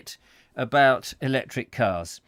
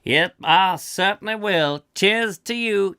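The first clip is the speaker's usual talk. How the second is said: higher hammed-up sketch voice; skit toast; 5 semitones higher, 4 dB louder, slower than usual. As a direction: toast heartily in character.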